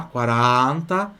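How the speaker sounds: slow "quaranta", open middle A. Shown as a demonstration. Teacher repeating the number for students, open A. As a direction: draw out "quaranta" on a wide open A. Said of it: "abre o A".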